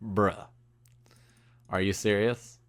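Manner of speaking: low, soft deadpan disbelief; understated, deflated incredulity; retold disbelief. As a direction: drop low and quiet, stunned. Retelling stunned reaction to waitress.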